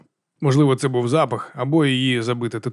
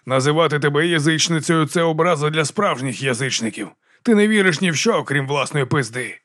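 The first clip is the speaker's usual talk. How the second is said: mocking baron; 3 semitones higher than usual. Baron mocks Vigga.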